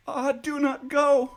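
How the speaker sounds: high, loud pleading cry; frightened loud cry; cried out. A narrator's reading. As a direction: cry it out to stop him. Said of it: "cried the wife".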